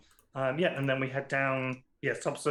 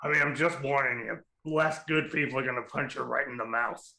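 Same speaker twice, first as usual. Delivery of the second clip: lightly voiced cigar-chomping pirate; gravelly pirate voice. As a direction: talk round a cigar like a pirate. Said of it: "I'm glad I have a voice for her now".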